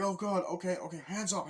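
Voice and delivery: high, loud frightened yelp; scared, throwing hands up; panicked okay okay; panicked surrender. Retold or imitated.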